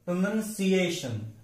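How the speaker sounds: प्रोनाउंसिएशन with "si-AY" leaned on before -shun; stress near the end. Shown as a demonstration. Teacher showing the stress mark, stressed second-last syllable. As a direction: say pruh-nun-si-AY-shun, stressing late. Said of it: "stress mark जाता है सी पर".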